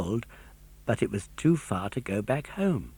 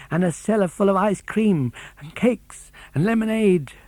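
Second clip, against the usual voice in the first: excited daydream; 3 semitones higher than usual. Acted. Pinocchio dreaming aloud of palaces and ice cream, building excitement. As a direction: let the dream run away with you, climbing.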